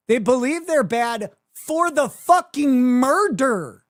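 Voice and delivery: exasperated furious tirade; heated rant. Real, not acted. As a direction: build the outrage line by line. Heated rant against House defendants.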